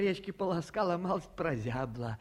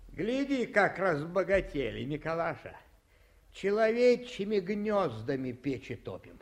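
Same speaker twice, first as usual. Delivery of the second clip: tipsy cheer; 3 semitones higher, 4 dB louder than usual. Acted. Tipsy man bustles in.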